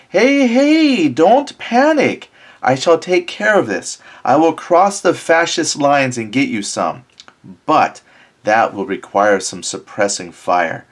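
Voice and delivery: rallying lieutenant. Acted. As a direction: sell the plan with bright bravado, slowing on don't panic.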